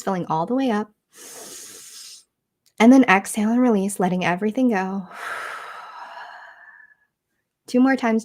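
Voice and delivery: measured meditation guide, long pauses between phrases; guided meditation. Acted. Teacher guiding listeners through three breaths into stillness, guided meditation. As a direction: lead listeners gently through each breath, leaving room to breathe.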